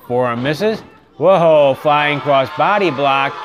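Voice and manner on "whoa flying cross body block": sudden loud gasp of amazement; surprised whoa. Real, not acted. Commentator startled as the cross body block flies, loud whoa. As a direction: caught off guard by the big move.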